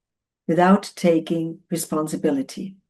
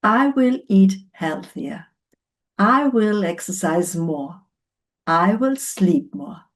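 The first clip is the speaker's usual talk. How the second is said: deliberate, measured "I will" statements; firm resolution. Shown as a demonstration. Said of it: "important to formulate them correctly".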